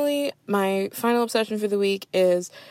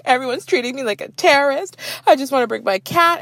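higher, louder indignant wail; mock freak-out; 7 semitones higher, 3 dB louder than usual. Cat lady melting down at airline staff, indignant. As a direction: whine like you're wronged. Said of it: "she started freaking out".

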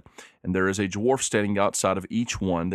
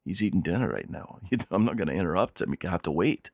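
politely stonewall the visitors, a touch softer; lightly voiced dwarf servant; 2 semitones lower, 4 dB quieter, faster than usual. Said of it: "he says".

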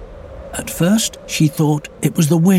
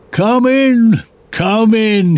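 warm welcoming; 8 semitones higher, 4 dB louder, slower than usual. Acted. Portly bear welcomes.

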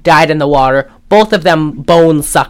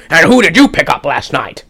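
put-on lightly done Mid-Atlantic accent, Sean Connery without the Scottish. Podcast host mimicking John Huston's Mid-Atlantic accent. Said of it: "like a Sean Connery without the accent".

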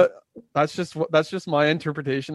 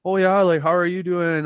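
overly nice Canadian; 3 semitones higher, 4 dB louder than usual. Retold or imitated. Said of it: "classic Canadian nice".

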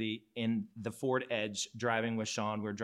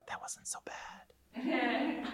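high, softer, drawn-out squeak; sheepish admission; 13 semitones higher, 5 dB quieter, much slower than usual. Acted. Looking back on leaving comfort zone, sheepish squeak. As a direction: admit it in a tiny, high near-whisper. Acts out reluctant admission afterwards.

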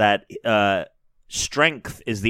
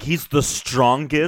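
swooning schoolgirl; 6 semitones higher, slower than usual. Retold or imitated. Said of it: "a girl in middle school writing about her crush".

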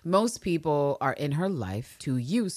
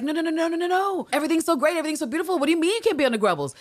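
hammed-up cheery denial, high and rushed; high frantic denial; 12 semitones higher, 4 dB louder, much faster than usual. Podcaster playing Lister gushing to keep Walker, high and frantic. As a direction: gush brightly to cover panic. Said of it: "Ann Lister's like".

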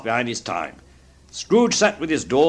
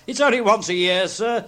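high, anxious appeal; pleading; 8 semitones higher than usual. A narrator's reading. Bob excusing his lateness to Scrooge, pleading. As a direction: plead upward like a frightened clerk. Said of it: "pleaded Bob".

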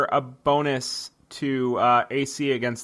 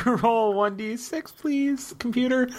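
polite robot request; 8 semitones higher, slower than usual. Pretend. Asks the computer politely.

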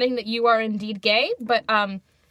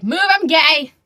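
sassy demand; 3 semitones higher, 5 dB louder, slower than usual. Pretend. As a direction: bark it as a playful demand. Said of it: "I'm gonna be like".

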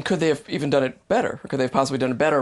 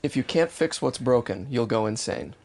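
slow, softer and lower line reading; slow model line; 5 semitones lower, 5 dB quieter, slower than usual. Shown as a demonstration. Repeating the sentence for him to copy, slow and low. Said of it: "give it to me one more time".

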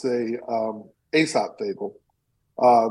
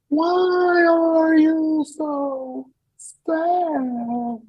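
much higher, very slow angel voice; 3 dB louder, much slower than usual. Acted. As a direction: stretch it out like a gentle otherworldly angel. Angel speaks to crying man.

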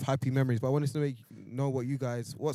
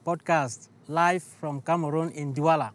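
podcast intro voice; 4 semitones higher, 4 dB louder, slower than usual. Acted. Guest intro, podcast voice-drop.

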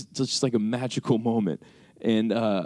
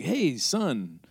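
lightly voiced higher-pitched mom; imitating mom; 6 semitones higher, slower than usual. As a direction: greet your son like a mom on the phone. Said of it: "my mom called me".

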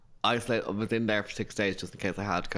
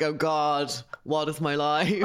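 mock despair, higher and drawn out; exasperated; 4 semitones higher, slower than usual. Friend recalling lockdown to co-host, mock exasperated. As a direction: wail it slowly in mock despair. Acted exasperated inner quote.

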